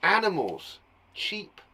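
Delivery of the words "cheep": high-pitched chirping cheep; squeaky, short bird chirps; little birdie. Shown as a demonstration. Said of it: "like a little birdie".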